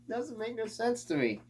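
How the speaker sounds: high, soft laughing squeak of disbelief. Real, not acted. Vlogger laughing at buyers of crap, high. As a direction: laugh it out incredulous.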